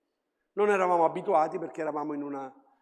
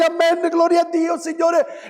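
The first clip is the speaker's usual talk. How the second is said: family's loud amen; 11 semitones higher, 8 dB louder than usual. Retold or imitated. Family answers the prayer.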